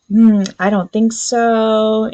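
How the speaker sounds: slow, sassy no; sassy refusal. Retold or imitated. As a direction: drag out the refusal. Sassy heroine quoted.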